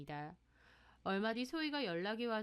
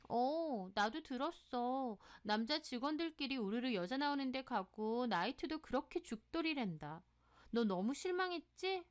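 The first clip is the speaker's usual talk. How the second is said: higher-pitched, mildly scandalized tattling; scandalized gossipy friend; 3 semitones higher than usual. Acted. Friend reports the boyfriend's nightlife to her, scandalized. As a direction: pass on gossip with a touch of shock.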